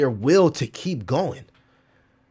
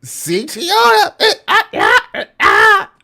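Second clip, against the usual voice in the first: excited yell; 12 dB louder, much slower than usual. Real, not acted. Excited yell about CTO.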